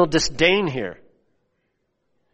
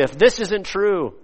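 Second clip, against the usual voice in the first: mock solemn oath; 3 semitones higher, slower than usual. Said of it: "summoning divine harm".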